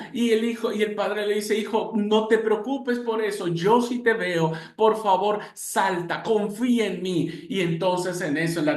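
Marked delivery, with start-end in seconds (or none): 1.6-7.3 higher, pleading and reassuring; father promising his son he will catch him, pleading. Acted. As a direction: coax him to trust you.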